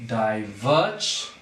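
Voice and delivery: "diverge" slow and low, rising on "verge"; iambic stress. Shown as a demonstration. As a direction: lean on the second syllable of "diverge". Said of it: "unstressed followed by stress".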